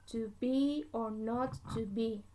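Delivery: to BE or NOT to BE, weak then strong; iambic stress. Shown as a demonstration. Teacher repeating the example of an iamb, iambic stress. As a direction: lean on "be" and "not", keep "to" and "or" light. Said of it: "I'm going to read this like this".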